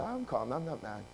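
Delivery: soft, lowering denial of anger; feigned calm. Retold or imitated. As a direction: hold the anger in, quietly. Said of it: "Inside I was boiling hot".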